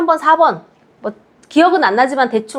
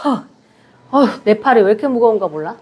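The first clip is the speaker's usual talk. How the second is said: tired groaning participant; 4 semitones lower, faster than usual. Retold or imitated. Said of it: "지금 팔 내리실 때 다들".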